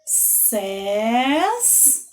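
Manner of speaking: "Ses" stretched out with a long final S; isolated syllable. Shown as a demonstration. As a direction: hold the single syllable "Ses". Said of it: "Vamos dividir?".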